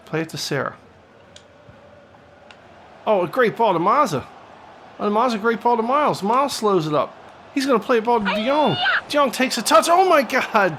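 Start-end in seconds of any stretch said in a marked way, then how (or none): 3.1-10.8 climbing higher and louder as the attack builds; rising excitement. Real, not acted. Commentator calling a breakaway chance, rising excitement. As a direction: sell the attack like it might be a goal.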